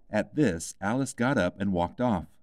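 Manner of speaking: ordinary delivery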